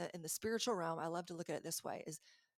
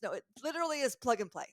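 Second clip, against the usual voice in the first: fast, louder, ending in a high burst of laughter; excited laugh; 7 semitones higher, 8 dB louder, much faster than usual. Real, not acted. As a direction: gush and crack up. Excited about her machine.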